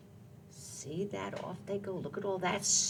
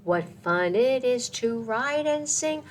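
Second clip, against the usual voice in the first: reading lyrics aloud; 3 semitones higher than usual. Acted. Reads song lyrics slowly.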